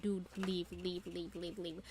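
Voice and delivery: low, hushed repeated urging, fading away; afraid, urgent. Retold or imitated. Fan urging a character to flee danger, hushed alarm. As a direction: urge them out under your breath. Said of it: "I was, like, very afraid".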